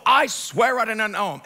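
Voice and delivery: emphatic sworn denial; swearing an oath. Acted. Peter taking an oath before bystanders, emphatic denial. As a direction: swear it with force. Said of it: "now he starts, like, taking an oath".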